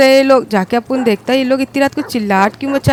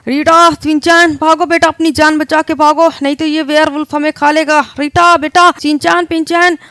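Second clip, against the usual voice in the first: panicked calling; 2 semitones higher, 4 dB louder than usual. Acted. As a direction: shout for the kids in a panic. Father fleeing werewolf, calling family. (डर से घबराकर बच्चों को पुकारते हुए)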